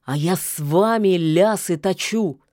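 angry. Acted. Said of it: "гневно выплюнул серый".

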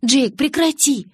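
high, loud, drawn-out scolding; exasperated. A narrator's reading. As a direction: tell him off to make him stop. Startled, telling him to stop.

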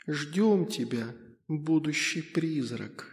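тихий потусторонний голос мальчика-призрака, медленно затихает; говори тихо, как призрак в голове. A narrator's reading. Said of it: "в моей голове всплыл его голос". (тихий голос призрака)

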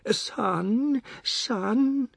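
high, drawn-out mother's call; pleading, wailed summons; plaintive calling. A narrator's reading. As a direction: call after your departing son. Mother calls after departing son.

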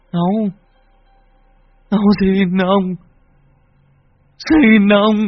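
high, loud, slow pleading that builds; terrified begging. Acted. The possessed boy begs his grandfather, rising to loud panic. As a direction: beg the ghost for mercy.

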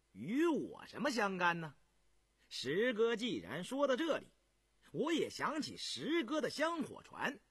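grinning reply. Acted. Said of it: "胤祥笑嘻嘻的".

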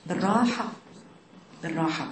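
soft and fading; hushed, soothing; gently. Shown as a demonstration. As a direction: say it softly and calmly. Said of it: "أنت تقولي بالراحة".

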